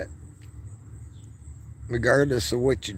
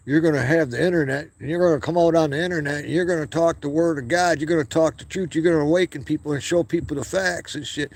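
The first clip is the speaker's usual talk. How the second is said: raised higher, fervent prophetic warning; voicing God; 4 semitones higher than usual. Vlogger voicing God warning him of coming censorship, fervent and higher. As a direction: lift the pitch and preach it like a prophecy. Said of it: "God can say".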